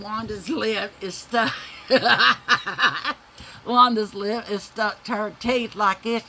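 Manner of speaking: laughing as she tells it. Real, not acted. Laughing at the memory.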